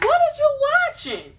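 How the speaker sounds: high, loud shocked mother; shocked mama. Retold or imitated. A mother catching her kid on the video, high and loud. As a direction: shriek it like a startled mom. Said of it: "the mama's like".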